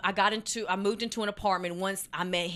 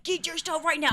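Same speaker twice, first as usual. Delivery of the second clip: mock order; 8 semitones higher, 4 dB louder than usual. Boyfriend's order retold.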